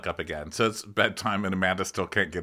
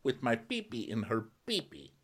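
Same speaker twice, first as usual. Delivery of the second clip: hammed-up mock gentleman; 13 semitones higher than usual. Recapping a reality show guy, hammed-up high voice. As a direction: put on a high silly male-suitor voice. Recap acts out cast member.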